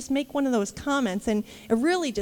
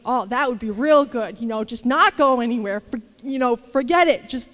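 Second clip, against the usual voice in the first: sarcastic grumble; 6 dB louder than usual. Retold or imitated. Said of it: "I'm like".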